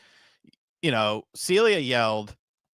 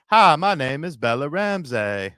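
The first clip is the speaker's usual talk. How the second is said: put-on Southern accent; 4 semitones higher, 4 dB louder than usual. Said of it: "a little Southern accent, kinda like a Forrest Gump accent".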